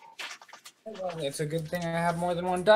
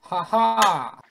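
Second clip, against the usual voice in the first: triumphant ha-ha; 6 dB louder than usual. Pretend. Player triumphs at catching the creature.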